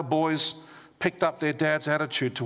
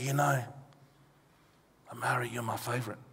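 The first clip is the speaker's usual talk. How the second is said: soft, hushed half-whisper, like a stage whisper; 4 semitones lower, 7 dB quieter than usual. Retelling half-whispering in a grandchild's ear: imitating a half-whisper. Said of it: "I whisper in my grandkids' ears".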